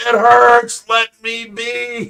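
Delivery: very slow dragged-out yelling. Retelling lying hurt on the ground, telling the kids: imitating own yelling. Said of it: "I stop yelling".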